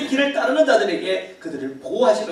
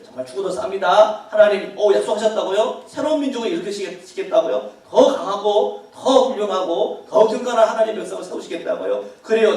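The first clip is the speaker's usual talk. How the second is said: mildly worked-up mock indignation, slightly raised voice; indignant outburst; 2 semitones higher, 4 dB louder than usual. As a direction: play an offended leader agreeing eagerly with God. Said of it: "더 경로하고 더 분노하고". (격분한 척 살짝 높인 목소리)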